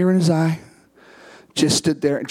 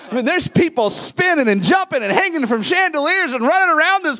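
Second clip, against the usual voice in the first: laughing excitement; 3 dB louder than usual. Real, not acted. Describing wild revival chaos.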